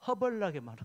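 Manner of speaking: light Jeolla dialect flavour; a hint of Jeolla speech. Shown as a demonstration. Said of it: "전라도 말로".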